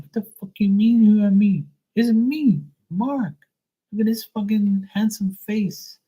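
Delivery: high, loud mock-indignant protest; mock outrage. Nephew protesting his aunt forgot him, high mock outrage. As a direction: play it up in comic disbelief.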